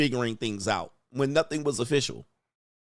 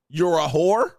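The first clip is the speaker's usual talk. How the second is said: louder, higher mock outrage; mock indignant retort; 5 semitones higher, 6 dB louder, slower than usual. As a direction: throw it back at her indignantly. Acted quarrel retort.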